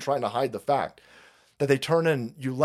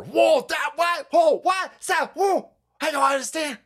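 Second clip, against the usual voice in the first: mock surprise; 11 semitones higher than usual. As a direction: gasp in fake disbelief. Mock shock at the FDA news.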